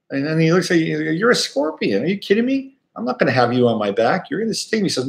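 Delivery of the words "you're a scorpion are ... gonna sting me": high, disbelieving frog voice; incredulous frog. Retold or imitated. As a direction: scoff at the scorpion's request as the frog. Frog refuses scorpion in fable.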